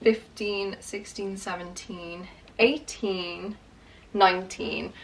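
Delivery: softly counting to oneself, word by word; counting under breath. Real, not acted. Vlogger recounts her books after losing track, counting under breath. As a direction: count off the numbers quietly, as if privately checking.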